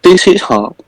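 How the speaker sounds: high, hammed-up mock Korean accent. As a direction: jump way up into a caricature Korean accent. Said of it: "in the actual Korean accent".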